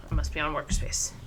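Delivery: put-on low French-accented cat voice. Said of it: "I don't know why you're French now".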